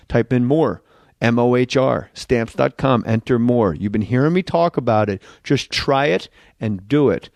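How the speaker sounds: steady sponsor read. Acted. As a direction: sell the product to listeners.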